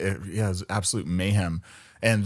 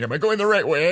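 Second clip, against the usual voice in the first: raised voice asking the dashboard; higher pleading question; 9 semitones higher, 5 dB louder than usual. Retold or imitated. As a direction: ask it up high and loud. Asking the bobblehead.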